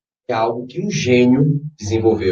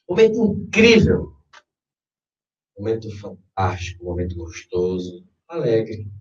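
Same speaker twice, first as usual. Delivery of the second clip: guided meditation. Acted. Leads a guided visualization.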